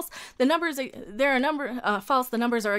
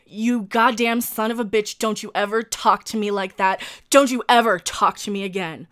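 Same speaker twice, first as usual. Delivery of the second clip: real, forceful angry rebuke; emotional anger; 4 dB louder than usual. Real, not acted. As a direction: tell off a bully, hitting the words hard. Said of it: "sorry to get emotional".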